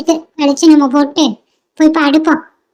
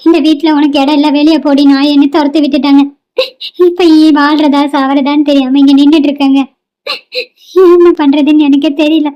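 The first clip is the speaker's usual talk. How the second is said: tearful. Acted. Cast-out daughter sobs out her story.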